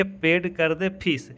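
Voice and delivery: "पेड कर दे फीस" said as one connected phrase; run together as phrase. Shown as a demonstration. Teacher shows students how to read "पेड कर दे फीस", as one phrase. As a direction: link the words of "पेड कर दे फीस", still measured. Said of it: "कैसे पढ़ेंगे".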